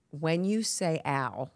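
mother slowly drawing out the word; drawn-out ow. Retold or imitated. Mother coaching her daughter, slow drawn-out ow. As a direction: mom coaching, stretch ow long and slow. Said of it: "You make that shit nine syllables".

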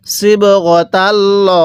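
slow, drawn-out tajweed chant; Quran recitation. Shown as a demonstration. Teacher recites the verse for students, slow tajweed chant. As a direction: intone each syllable slowly like a reciter. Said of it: "কিভাবে পড়ব?".

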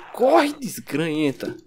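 slow silly jeer; mocking cartoon voice. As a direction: drag it out teasing. Taunting the fleeing zombie.

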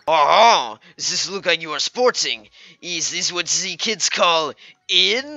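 badly faked French artist; lightly voiced French accent, slowing at the end; mock French accent. Artist eyeing a customer's look, mock French accent. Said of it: "I'm not French".

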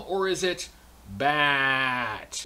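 "Bat" stretched long and slow, like Baaat; drawn-out Bat. Shown as a demonstration. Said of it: "So is it pronounced the same".

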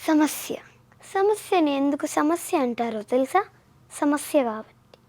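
lightly acted film-heroine line; soft-edged, understated actress imitation; Samantha. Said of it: "Samantha అలా చెప్పాలి".

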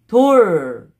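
돌 closed with a held L sound; batchim pronounced. Shown as a demonstration. Teacher showing learners the final consonant, closed syllable. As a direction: end 돌 on a clear ㄹ. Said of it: "Just pronounce".

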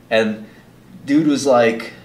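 normal talking voice

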